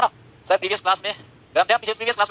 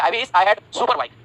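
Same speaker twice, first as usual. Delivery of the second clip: slow dictation; much slower than usual. Shown as a demonstration. Teacher dictates example sentence slowly.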